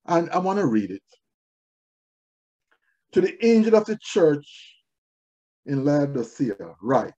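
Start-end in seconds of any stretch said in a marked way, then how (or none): 3.1-7.1 measured, emphatic proclamation in phrases; scripture reading. Acted. Preacher reading the letter to Laodicea, solemnly declaimed. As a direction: read it out firmly, pausing between phrases.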